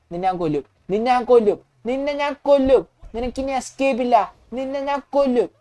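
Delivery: rising, heated game-play threat; angry threat. Acted. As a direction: threaten him with mounting mock fury. Acted threat to kill driver. (ദേഷ്യത്തോടെ ഭീഷണി)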